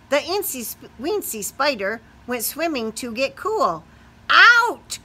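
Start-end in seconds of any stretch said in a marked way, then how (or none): 4.3-5.0 loud, higher croaking out; loud frog shout; croaked. Acted. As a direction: bark it like a cross frog. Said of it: "croaked the frog".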